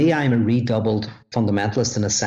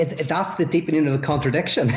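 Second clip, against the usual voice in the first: laughing; 5 semitones higher than usual. Real, not acted. Laughing rebuttal of balance idea.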